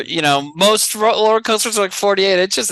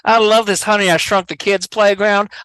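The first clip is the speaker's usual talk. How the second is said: mock Arkansas guy; 3 dB louder than usual. Joking about the Arkansas guy on every ride, light accent. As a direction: play the Arkansas ride fan. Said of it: "a weird Arkansas person".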